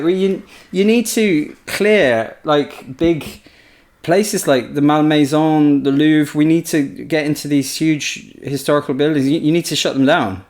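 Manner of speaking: Ridley Scott impression. Ridley ordering the advisor to clear Paris, mock bossy. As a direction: give orders like an impatient big boss. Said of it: "He's like".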